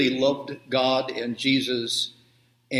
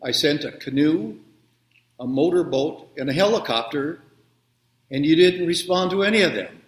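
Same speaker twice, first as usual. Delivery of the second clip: stern; 3 dB louder than usual. Acted. God answers the angry drowned man, mildly stern. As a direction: list it patiently, then drive home the rebuke. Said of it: "looks at him very sternly and says".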